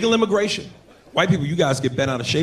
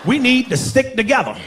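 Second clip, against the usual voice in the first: overjoyed greeting; 8 semitones higher than usual. Retold or imitated.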